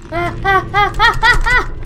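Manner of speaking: panicked high screams; screaming in fright. Real, not acted. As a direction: scream as something grabs you. Attacked by leech in game.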